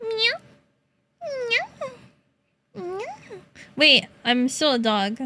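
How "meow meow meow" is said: small high meow; mock cat meow. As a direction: try out a shy meow. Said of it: "learn how to meow like a real cat".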